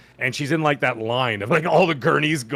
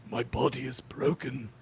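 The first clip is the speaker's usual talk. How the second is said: high, strained movie death line; dying movie hero; 5 semitones higher, slower than usual. Retold or imitated. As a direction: ham up a Gladiator death scene. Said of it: "pretty good impression of".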